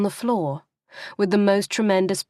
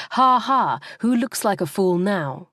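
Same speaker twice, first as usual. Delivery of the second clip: mocking; 2 semitones higher than usual. Imagined mockery of her failure.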